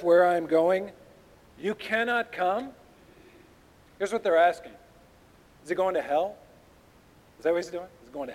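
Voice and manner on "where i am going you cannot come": mimicking his words with questioning rises; sarcastic. Shown as a demonstration. Jews throwing Jesus' words back at him, sarcastic. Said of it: "I want you to read this sarcastically".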